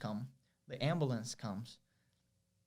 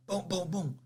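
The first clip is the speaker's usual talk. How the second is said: imitated door banging; 5 semitones higher than usual. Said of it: "Start hearing a bang in the door".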